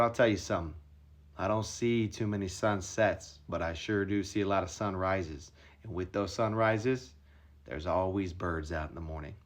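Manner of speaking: a hint of Wahlberg's gravelly guru talk, slowed down; Wahlberg impression. Wahlberg's slow solemn speech.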